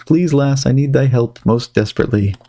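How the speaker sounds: lightly voiced old colonial man, pleading; Poor Richard. Poor Richard begs the girl to free him, lightly pleading. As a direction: beg the lass for help in old-fashioned speech.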